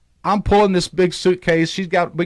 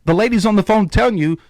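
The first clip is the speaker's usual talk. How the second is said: heated; 4 semitones higher than usual. Retold or imitated. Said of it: "I get redneck".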